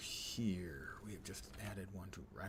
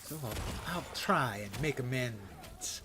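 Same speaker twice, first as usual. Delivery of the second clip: bad pirate accent. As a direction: try a clumsy pirate accent. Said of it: "Pretty bad".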